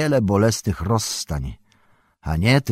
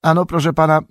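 trembling slightly; 9 semitones higher, 7 dB louder, faster than usual. A narrator's reading. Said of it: "dygocąc z lekka".

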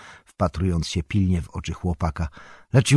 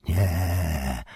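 stern. A narrator's reading. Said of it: "surowo rzekł Gandalf".

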